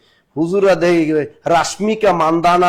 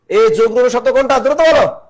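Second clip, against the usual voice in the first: urging quickly; 6 semitones higher, 4 dB louder than usual. Real, not acted. Teacher urging class to answer.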